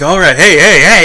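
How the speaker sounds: imitating Michael calming the crowd; rowdy hey hey. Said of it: "he's like".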